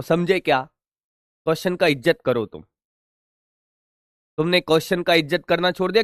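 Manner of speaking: fast, quiet stream of scolding; rapid scolding. Acted. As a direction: rattle off the lecture at the class. Teacher scolds students in a rush.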